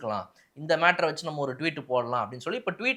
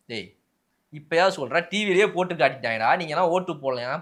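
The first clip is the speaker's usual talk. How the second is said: louder mock scolding of voters; scolding party man; 4 dB louder than usual. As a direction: tell them off after the loss.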